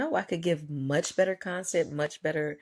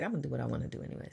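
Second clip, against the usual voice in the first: defiant; 6 dB quieter, much faster than usual. Retold or imitated. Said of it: "And I was like".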